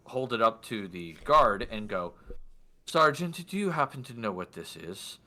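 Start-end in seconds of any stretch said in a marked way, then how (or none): 2.9-5.2 a hint of formal questioning; lordly man in white. Lord showing sergeant an object, lightly put-on formal voice. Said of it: "do my best for his voice".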